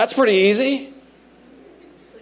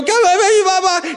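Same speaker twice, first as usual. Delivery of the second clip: put-on baby talk; 8 semitones higher than usual. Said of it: "You go".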